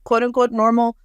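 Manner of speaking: high, wondering disbelief; wondering aloud. Retold or imitated. Newly healed person marveling, high and wondering. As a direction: voice lifting in amazed discovery. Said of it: "And they're like".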